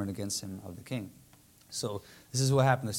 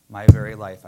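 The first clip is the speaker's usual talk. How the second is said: pleading cry; 15 dB louder than usual. Retold or imitated. Esther pleading with the king.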